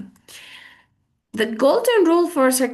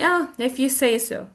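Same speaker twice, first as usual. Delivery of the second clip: cool, unconvinced brush-off; cold, dismissive; 2 semitones higher than usual. Shown as a demonstration. Teacher acts out doubting a claim, cold and dismissive. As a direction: concede coolly, without believing it. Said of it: "if you say so with a cold tongue".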